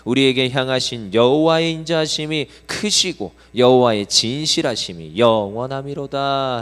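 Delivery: loud, measured scripture reading aloud; scripture recited in unison; congregational reading. Shown as a demonstration. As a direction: read it out together, firmly. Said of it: "읽어보겠습니다. 시작".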